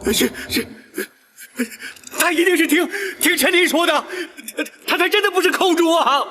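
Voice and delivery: high, panicked, stumbling pleas; frightened stammer. Acted. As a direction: stammer in terror. Terrified Guo Huai stammers.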